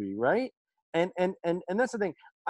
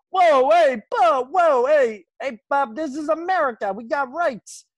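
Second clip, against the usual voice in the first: mock cop protest; 6 semitones higher, 5 dB louder, slower than usual. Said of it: "it's just kinda like".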